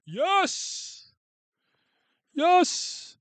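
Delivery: high-pitched yell of yes; excited cheer. Real, not acted. Streamer cheering at chat's favorite pick. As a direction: cheer like you just won.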